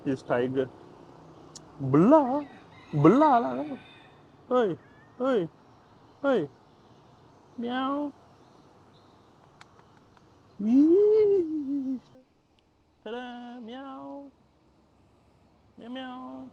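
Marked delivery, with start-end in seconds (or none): 1.8-6.5 very high, loud silly babble; high loud nonsense coo; playful baby noise. Pretend. 7.6-16.5 very high squeaky meows; play-mew at the cat; playful meowing. Pretend. Mewing and playing with cat.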